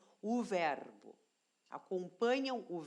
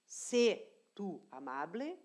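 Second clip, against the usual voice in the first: slow demo; slower than usual. Shown as a demonstration. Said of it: "do verbo ser".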